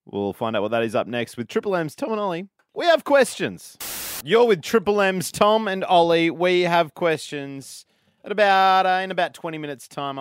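radio presenter teasing what is next; radio link announcer. Acted. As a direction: announce the show with punchy emphasis. Radio show ident and link.

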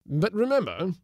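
stern warning. A narrator's reading. Magistrate warning Mary.

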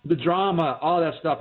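hiccuping while talking; words broken by hiccups. Real, not acted. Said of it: "excuse me if I'm hiccuping".

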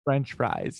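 echoing an Australian's attempt at an American accent; imitated American accent. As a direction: mimic the put-on American accent. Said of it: "do an American accent and say French fries".

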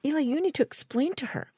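retold desperate plea to Eli; flustered plea. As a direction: beg him to set it straight. Begging Eli to explain.

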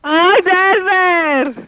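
exasperated groan. Real, not acted. Annoyed woman scolds prank caller.

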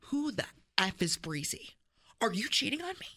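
mock jealous wife, rising to a shrill high yell; imitated wife accusing him, ending in a high loud shout. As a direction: play the suspicious wife losing it.

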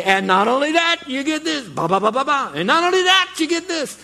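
very high, loud prize-piling hype; over-the-top game show excitement; game show announcer. Acted. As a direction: keep revealing prizes like a TV host, with fanfare. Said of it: "And then they say".

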